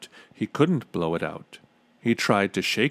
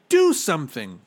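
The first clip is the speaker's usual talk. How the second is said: loud, high urgent demand; raised voice falling at the end; shouting; 6 semitones higher, 5 dB louder than usual. A narrator's reading. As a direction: shout it as a desperate order. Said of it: "shouted Bartholomew".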